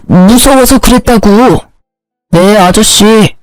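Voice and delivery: ordinary delivery, nothing marked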